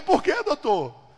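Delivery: high, stretched-out query; acted wondering question; puzzled question.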